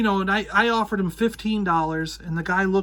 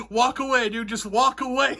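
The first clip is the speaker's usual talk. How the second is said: calm warning; 5 semitones higher than usual. Retold or imitated. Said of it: "the guy behind me goes".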